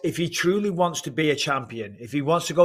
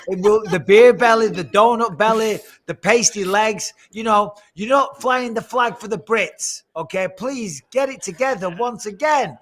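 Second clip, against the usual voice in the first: mock scolding; 5 semitones higher, 3 dB louder than usual.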